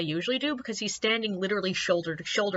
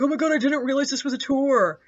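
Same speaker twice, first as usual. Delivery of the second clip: embarrassed; 5 semitones higher, 4 dB louder, faster than usual. Retold or imitated. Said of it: "all embarrassed and is like".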